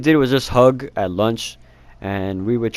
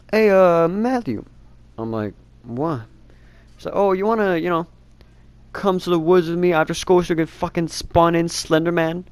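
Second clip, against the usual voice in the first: higher mock girlish voice; imitating the girl; 6 semitones higher than usual. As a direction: lightly play the creepy girlfriend, higher. Girlfriend's words voiced in story.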